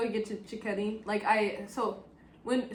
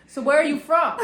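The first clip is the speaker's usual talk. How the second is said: laughing through the question; quoting the Milan man through laughter; laughing quote; 3 semitones higher, 6 dB louder than usual. Retold or imitated. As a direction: quote him while laughing.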